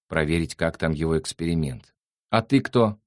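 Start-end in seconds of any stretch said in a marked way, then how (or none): 2.3-3.0 high, thin questioning; thin little voice. A narrator's reading. The creature questions Nick from behind, in a thin high voice. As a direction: pipe up in a small high voice. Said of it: "тоненьким голосом вопрошало сзади существо".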